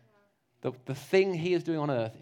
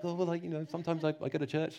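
softer, rushed nervous mumble; awkward mumble; 5 dB quieter, faster than usual. Retold or imitated. Preacher imitating himself awkward with his neighbor, softer. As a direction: sweat through a hesitant admission. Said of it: "all sweaty".

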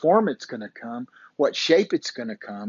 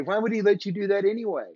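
mock scream, repeated; 6 semitones higher, faster than usual. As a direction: rattle off the objection again, less force.

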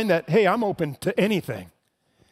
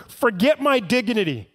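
desperate pleading; 4 semitones higher than usual. Acted. Father begging Jesus to heal his dying son, rising desperate plea. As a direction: beg like your son's life depends on it. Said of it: "He's begging Jesus. He's pleading with Jesus".

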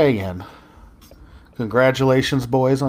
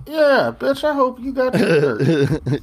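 loud call-out; 11 semitones higher, 3 dB louder, slower than usual. Acted. Calling out a listener.

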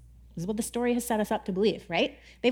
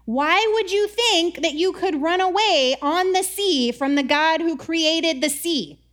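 higher, louder, slow and incredulous; mock angry sailors; 4 semitones higher, 3 dB louder, slower than usual. Angry sailors scolding Jonah, mock outrage. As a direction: scold Jonah like an exasperated crew. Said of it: "They were like".

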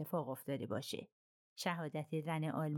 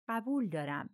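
a touch of dry irony; lightly mocking agreement, قبول dry and knowing; ironic. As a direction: Bouc teasing Poirot, mild irony. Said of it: "به طنز گفت".

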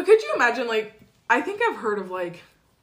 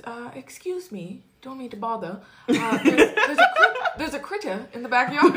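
polite British. Retold or imitated. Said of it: "He says".

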